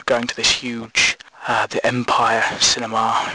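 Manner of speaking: deep, mournful middle-aged son reminiscing; nostalgic old man. Acted. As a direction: play the grieving son who is secretly bitter. Character monologue, older man.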